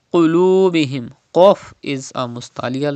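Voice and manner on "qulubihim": "Qulubihim" with a heavy back q; thick Qaf. Shown as a demonstration. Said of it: "read with thicker voice".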